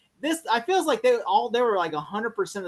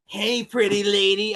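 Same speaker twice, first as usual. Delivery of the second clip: mock henchman; slower than usual. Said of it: "watching this opening".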